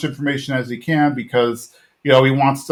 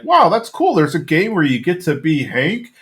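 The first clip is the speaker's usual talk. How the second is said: mock wide-eyed wonder, pitched up; Bill; 4 semitones higher than usual. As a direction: imitate an impressed friend, starting high. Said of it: "and Bill's like".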